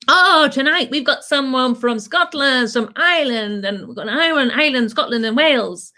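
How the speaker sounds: compere intro. Retold or imitated. Compere announcing acts on stage.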